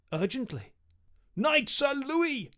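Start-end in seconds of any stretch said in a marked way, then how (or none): 1.3-2.5 higher, louder, slow royal summons; shouting king. A narrator's reading. King summons his knight, shouting slowly and high. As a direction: call him across the castle. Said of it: "he shouted".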